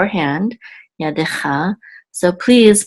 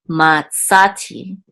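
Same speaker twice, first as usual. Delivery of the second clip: slow matsati, middle SA stressed; slower than usual. Shown as a demonstration. Teacher repeating the Hebrew word, slowly stressing SA in matsati. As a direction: draw out matsati, leaning on SA. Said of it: "the accent mark is on sa".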